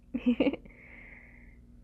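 breathy giggle; quick airy laugh. Acted. Laugh between whispered lines.

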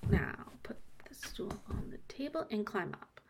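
low hushed whisper. Acted. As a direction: whisper it so no one hears. Hushed instruction, scene of secrecy.

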